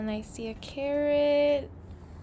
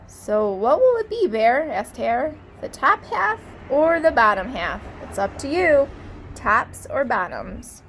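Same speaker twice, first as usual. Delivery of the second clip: louder, eager pitch to Bear; pushy salesman hare; 5 dB louder than usual. Acted. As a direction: sell him the deal. Hare asks Bear, loud.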